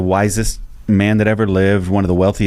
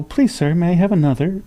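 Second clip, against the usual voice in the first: Victorian schoolboy; 7 semitones higher than usual. Retold or imitated. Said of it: "it's like a Dickens character".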